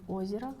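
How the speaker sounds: "озеро" stressed on its opening О; stress on first syllable. Shown as a demonstration. Lecturer gives a Russian example of free stress, first-syllable stress in "озеро". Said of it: "fall on the first syllable".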